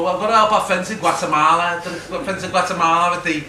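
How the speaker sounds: mildly mock a political meeting speech; earnest militant activist. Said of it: "They'd be talking about this stuff like this".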